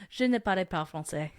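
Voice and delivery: well-practised French pronunciation; French accent. Shown as a demonstration. Showing off a learned phrase, French accent. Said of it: "complimented on how well I say".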